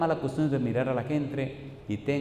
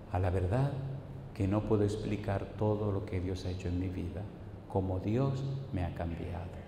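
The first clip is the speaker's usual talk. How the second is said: softer, lowered retelling of a testimony; understated tearful testimony; 3 semitones lower, 5 dB quieter than usual. Retold or imitated. Preacher imitates converts testifying to God's change, understated and hushed. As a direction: quietly voice a convert's grateful testimony. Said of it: "testifican con lágrimas".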